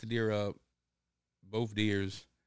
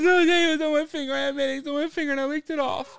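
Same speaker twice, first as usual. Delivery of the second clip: disgusted daughter; 10 dB louder, faster than usual. Retold or imitated. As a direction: whine it like a grossed-out kid.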